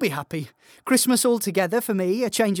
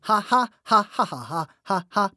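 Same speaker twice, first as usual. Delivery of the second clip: staged laughter; 2 semitones lower than usual. Acted.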